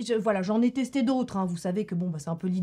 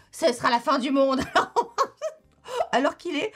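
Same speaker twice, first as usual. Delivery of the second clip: rire nerveux; 5 semitones higher, 4 dB louder than usual. Real, not acted. Nervous joke about elections.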